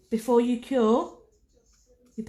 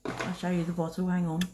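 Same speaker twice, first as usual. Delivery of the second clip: talking with a brush in mouth; mouth full; 3 semitones lower, 4 dB quieter, faster than usual. Real, not acted. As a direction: speak around a brush held in teeth. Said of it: "I've got a brush in my mouth".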